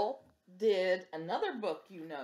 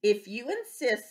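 sparrow; 4 semitones higher, 3 dB louder than usual. Acted. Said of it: "said the sparrow".

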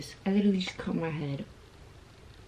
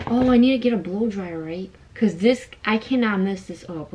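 louder, anxious rush; raised excited voice; 7 dB louder than usual. Real, not acted. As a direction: push it out loudly, worried. Panicking about the shoot.

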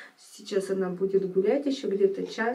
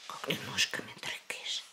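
whispering; 10 semitones lower, 10 dB quieter than usual. Real, not acted. Whispering to baby.

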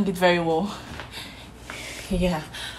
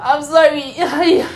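crying apology; 6 semitones higher than usual. Pretend. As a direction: cry out a tearful sorry. Fake confession, crying out.

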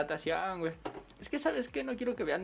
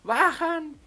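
loud, high yell to stop the bus; high shouted stop call; 11 semitones higher, 9 dB louder than usual. Retold or imitated. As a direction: yell it up high so the driver stops. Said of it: "yo le grito".

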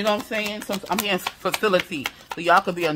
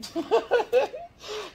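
sudden high-pitched burst of laughter. Real, not acted. Tarot reader laughs at what she picks up, high laugh. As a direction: let out a squealing laugh.

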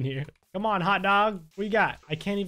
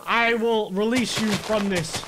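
mock farewell; 3 semitones higher, 5 dB louder, slower than usual. Mercy-killing the suffering pigs.

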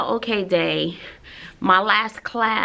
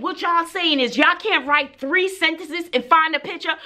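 higher-pitched mock-incredulous teacher scolding; exasperated retort; 5 semitones higher than usual. Teacher retells challenging students over three sentences, exasperated. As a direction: challenge them in retold exasperation.

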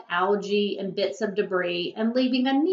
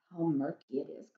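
complaining; 6 semitones lower, 10 dB quieter than usual. A narrator's reading. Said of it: "complained the coral".

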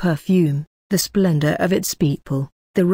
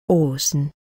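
shy and sweet; 3 semitones lower than usual. A narrator's reading. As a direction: say his name shyly, sweetly. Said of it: "shyly, but oh, so sweetly".

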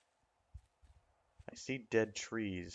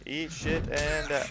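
raging gamer; 5 semitones higher than usual. Real, not acted. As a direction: lose it at the game. Raging after being hit.

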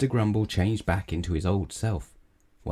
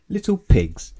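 loud, higher burst on the punishment; dramatic reveal; 6 semitones higher, 7 dB louder than usual. A narrator's reading. Wizard to grumbler turning him into pigs, dramatic reveal. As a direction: pronounce the spell's result with force.

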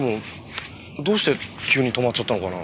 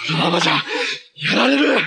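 desperate shout; 2 semitones higher, 3 dB louder than usual. Acted. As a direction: voice jumping up into a panicked yell. Cornered in a fight, desperate.

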